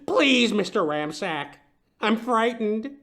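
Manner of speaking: high, crying plea breaking into sobs; sobbing. Acted. Client begging the detective, crying. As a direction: beg through tears, slowing down. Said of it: "leaving Stumpton sobbing".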